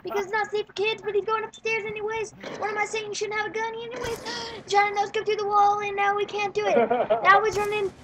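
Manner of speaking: breathless running game commentary; lively sportscaster-style game call; live play-by-play. Real, not acted.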